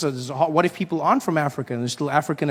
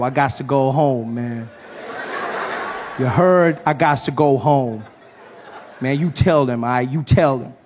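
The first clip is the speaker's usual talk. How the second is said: preachy street speech. Retold or imitated. Comedian's speech in story.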